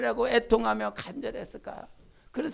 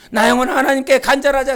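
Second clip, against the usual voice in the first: loud declaration; 10 dB louder than usual. Shown as a demonstration. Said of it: "세 번 시작".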